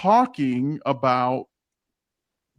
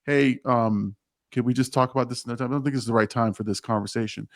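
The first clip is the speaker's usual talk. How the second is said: hurried polite brush-off; 3 semitones lower, faster than usual. Retold or imitated. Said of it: "Now I'm like".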